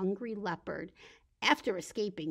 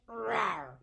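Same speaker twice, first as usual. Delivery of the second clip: short playful rawr; lion roar; 3 dB louder than usual. Pretend. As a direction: pretend lion roar on a stretch.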